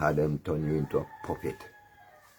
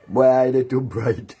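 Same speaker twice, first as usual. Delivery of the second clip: loud, slow, sing-song mockery of a brag; mock boast; 5 semitones higher, 6 dB louder than usual. Taunting a rival, loud slow mock boast. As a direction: ham up his bragging loudly and slowly.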